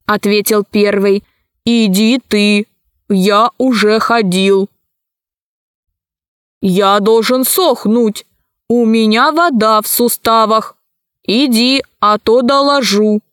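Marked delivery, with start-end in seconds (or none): 1.6-4.7 lightly voiced emotionless robot; a hint of an unfeeling machine. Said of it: "голоса их никаких чувств не выражали". 6.6-13.2 lightly voiced emotionless robot; a hint of an unfeeling machine. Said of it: "голоса их никаких чувств не выражали".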